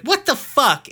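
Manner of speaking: very high, loud exasperated shout; outraged yell. Retold or imitated. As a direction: lose it at your lying dad. Steven losing it on Greg.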